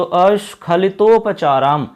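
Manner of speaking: slowly pronouncing अस्खलितोपचाराम; slow spelling out. Shown as a demonstration. Teacher repeats the word slowly for students. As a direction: say अस्खलितोपचाराम deliberately, each syllable clear. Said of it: "ऐसे आपको इसमें टुकड़ा करना होगा".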